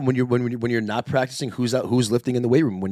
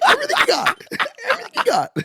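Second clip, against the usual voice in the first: laughing hard; 4 dB louder, faster than usual. Real, not acted. Co-host cracking up over voice crack.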